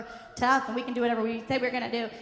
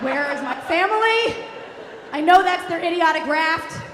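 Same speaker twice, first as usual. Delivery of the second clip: mildly hammed-up alarmed dad; retold dad outburst; father freaking out; 2 semitones higher, 4 dB louder than usual. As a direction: raise the voice as a frantic father. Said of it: "my father freaked out".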